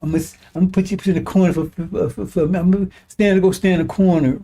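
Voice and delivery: rattled off fast like a fussy parent; mock fast scolding. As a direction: hurry through it, mocking a feeble scold. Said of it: "Is that what it sound like?".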